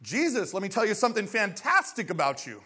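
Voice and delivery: a light, eager sales pitch; salesman pitch. Retold or imitated. Nicodemus flattering Jesus like a salesman, mildly eager. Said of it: "Anybody here work in sales?".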